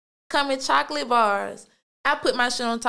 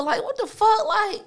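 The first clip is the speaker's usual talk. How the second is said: laughing disbelief; 10 semitones higher than usual. Real, not acted.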